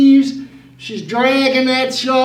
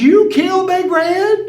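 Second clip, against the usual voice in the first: shocked granny; 6 semitones higher than usual. Retold or imitated.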